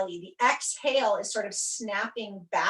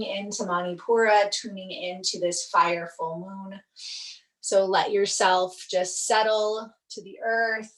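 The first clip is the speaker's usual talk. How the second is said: guided meditation; 2 semitones lower than usual. Real, not acted. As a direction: ease them down, leaving long pauses. Settles students into yoga nidra.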